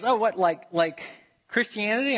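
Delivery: high, eager questioning stranger; curious surprise. Retold or imitated. Chinese student surprised by his field, high questioning. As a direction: rise up in surprise.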